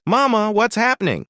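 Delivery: put-on a high, anxious child's question; worried little girl. A narrator's reading. Little girl asking her mama about the fight, mildly alarmed.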